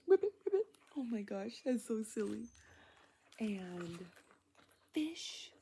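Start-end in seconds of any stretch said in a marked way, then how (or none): 0.1-0.7 loud, high croaking ribbit; loud playful frog noise for a child. Pretend. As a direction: belt out a silly frog call. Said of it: "What does a frog say?".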